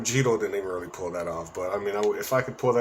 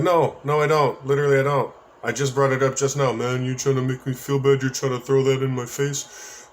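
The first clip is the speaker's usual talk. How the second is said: louder, slightly raised defensive protest; retold protest; 3 semitones higher, 4 dB louder than usual. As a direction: push back insistently, as in a retold argument. Acted argument over bounced checks.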